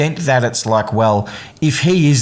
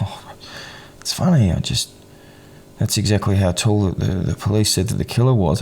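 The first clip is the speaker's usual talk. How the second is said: passive-aggressive fake laugh; 3 dB quieter than usual. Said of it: "passive-aggressive fake laugh".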